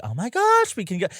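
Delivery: high squeal of delight; excited squeal. Retold or imitated. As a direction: squeal it like a thrilled fan. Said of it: "and I was like".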